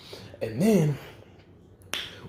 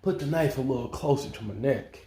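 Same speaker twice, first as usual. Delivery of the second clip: eerie calm command; 3 semitones higher than usual. Retold or imitated. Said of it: "And then he said".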